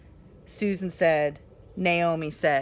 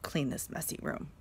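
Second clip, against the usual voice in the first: refused; 4 semitones lower, 9 dB quieter than usual. Shown as a demonstration. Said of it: "refused Mother".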